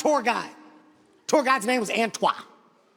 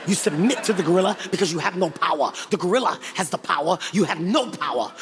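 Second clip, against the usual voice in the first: lightly voiced solemn tour guide, lower; Antoine; 4 semitones lower than usual. Tour guide warning visitors about the gorilla's power, lightly intoned and emphatic. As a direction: preach submission in a lowered, emphatic voice. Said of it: "This is exactly what he said to us".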